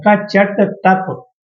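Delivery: कचट तप very slow, syllable by syllable; slow dictation. Shown as a demonstration. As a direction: space out each sound of कचट तप for note-takers. Dictates the mnemonic for writing down.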